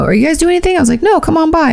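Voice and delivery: high-pitched quoted chat; retold friendly exchange. Replaying an invitation to friends, high and friendly. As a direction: lift the voice high for both sides.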